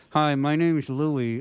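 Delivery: talking through a wired jaw; jaw wired shut. Retold or imitated. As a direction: lips moving, teeth clenched shut. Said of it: "that's why I'm talking like this".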